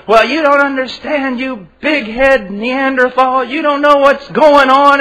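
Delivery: hammed-up furious wife hurling insults; angry wife snapping back. Wife turning on her husband with Medusa hair, loud hammed-up anger.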